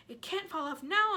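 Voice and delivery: high excited cry; excited aunt cry. Acted. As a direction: call it out with relief. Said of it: "Aunt Sponge cried".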